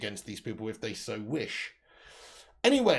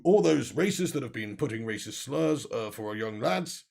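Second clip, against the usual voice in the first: Boris Johnson impression; 5 semitones lower than usual. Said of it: "Boris Johnson accent to".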